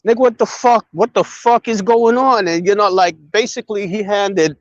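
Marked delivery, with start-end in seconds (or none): 0.1-2.5 retold angry confrontation, pitched up; lit into him. Radical confronts Kim on three-way, mildly angry. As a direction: imitate chewing someone out, not shouting. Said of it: "Radical lit into his ass".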